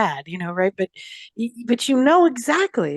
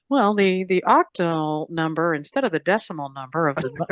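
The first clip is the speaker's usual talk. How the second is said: Sylvester Stallone; 8 semitones lower than usual. Pretend. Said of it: "sat down with Sylvester Stallone and he's like".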